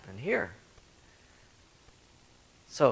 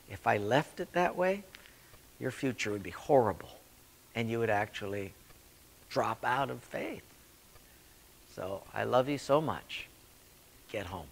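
God lovingly calling someone home, softer; tender God; 5 dB quieter than usual. Retold or imitated. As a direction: speak with gentle love.

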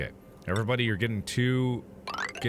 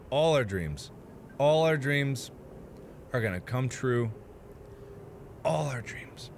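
mock inspirational speech.

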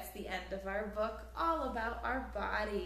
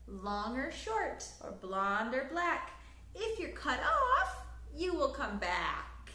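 lively, sing-song storybook reading; reading to children; 3 semitones higher than usual. A narrator's reading. Teacher reading a picture book aloud to children, lively storytelling. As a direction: read it like bedtime story time for little ones.

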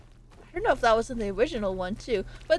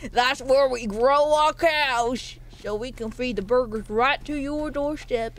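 put-on country accent. Streamer playing rancher explains where cows grow, country accent. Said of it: "why I'm putting on an accent".

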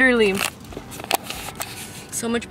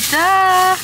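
self-mocking duh; 8 semitones higher, 7 dB louder than usual. Real, not acted. Mocks herself for missing it.

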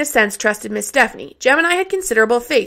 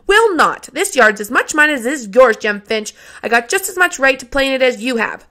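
defiant protest; 2 semitones higher than usual. Acted. Child refuses to be sent away.

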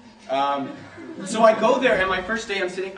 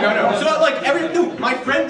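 laughing protest; 9 semitones higher, 10 dB louder than usual. Real, not acted. Laughing after audience joke.

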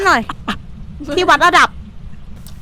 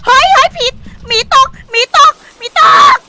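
panicked shout; 8 semitones higher than usual. Real, not acted. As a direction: cry out in sudden fright. Ghost spotted, panic.

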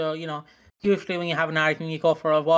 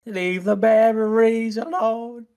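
pleading; 5 semitones higher, 4 dB louder, slower than usual. Retold or imitated. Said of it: "And I'm like".

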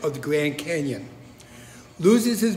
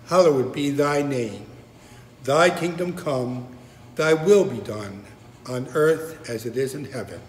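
prayer recitation. Acted. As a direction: recite the Lord's Prayer phrase by phrase.

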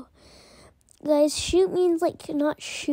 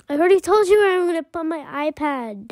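pretend exasperation; 4 dB louder, faster than usual. Child character snaps back at mom.

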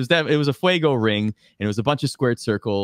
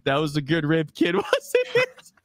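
teasing laugh; 3 semitones higher than usual. Retold or imitated. Tigers teasing him.

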